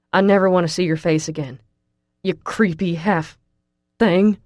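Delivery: loud, furious tirade building to the insult; angry through clenched teeth. A narrator's reading. Russell telling the girl to get out of his head, furious. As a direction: push her away with rising fury. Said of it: "with his teeth clenching".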